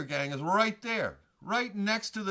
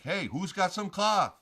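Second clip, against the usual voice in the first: slow mock yell asking for cloth; retold yell; 4 semitones higher, 4 dB louder than usual. Yelling at the biker gang for cloth, slow. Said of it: "I yell".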